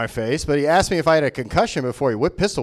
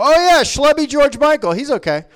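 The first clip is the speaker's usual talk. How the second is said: imitated audience member; 9 semitones higher, 4 dB louder than usual. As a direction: play a fan suddenly placing the comic. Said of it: "They just go".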